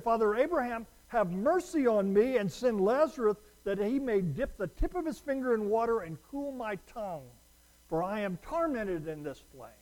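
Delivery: lightly voiced cry for mercy; rich man crying out. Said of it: "he cried and said".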